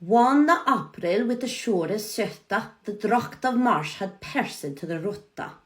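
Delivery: Chaucer read with Norwegian lilt; Middle English reading. Shown as a demonstration. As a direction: recite it like old verse. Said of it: "So let's go".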